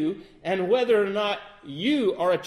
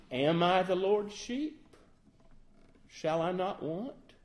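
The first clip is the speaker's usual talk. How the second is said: timid. Shown as a demonstration. Preacher mocking a too humble believer, timid and unsure. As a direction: ask it doubtfully, tentative. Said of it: "See the problem with that".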